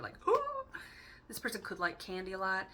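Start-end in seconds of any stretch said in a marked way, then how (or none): 0.2-1.2 very high excited gasp; delighted gasp. Pretend. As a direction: gasp at the candy. Kid in candy store gasp.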